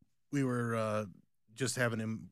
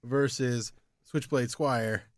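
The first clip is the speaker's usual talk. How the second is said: wrestling promo; 3 semitones higher, slower than usual. Pretend. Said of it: "let's cut a promo".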